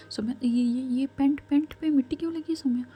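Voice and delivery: put-on a frightened mother fussing over her hurt child; panicked worry.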